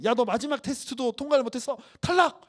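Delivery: loud mock verdict, the final 탈락 shouted high; hammed-up loud elimination; mock fail verdict. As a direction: announce the failure like a harsh examiner. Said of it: "이렇게 하셨을까요?".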